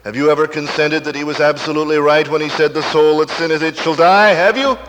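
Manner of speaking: preacher's question building to a high, loud demand; pressing challenge. Real, not acted. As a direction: press the congregation harder until it rings out.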